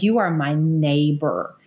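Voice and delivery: slow, sinking, heartfelt apology; sincere apology. Retold or imitated. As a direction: ease down slowly into real remorse.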